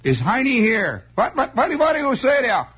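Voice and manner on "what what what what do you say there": high, flustered Bavarian German impression; baffled German accent. Mister Falpo baffled by regular English, high German accent. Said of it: "rotten Bavarian German accent".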